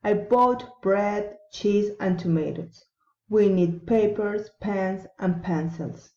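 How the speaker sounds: deliberate list, pausing after "bread", "cheese", "papers", "pens"; rising list intonation. Shown as a demonstration. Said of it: "rising intonation".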